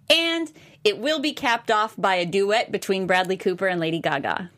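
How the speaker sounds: comic news anchor delivery; mock newscast read. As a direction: read it out like a headline with a punchline. Reads joke news headlines.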